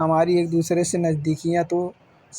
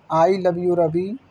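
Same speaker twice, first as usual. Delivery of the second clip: slow, tender declaration of love; tender letter; much slower than usual. Acted. Wife's letter to Ravi, slow and tender.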